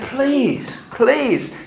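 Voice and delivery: high-pitched acted begging; imitating a condemned man's plea; desperate pleading. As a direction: plead in a high voice, without shouting. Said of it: "kicking and screaming".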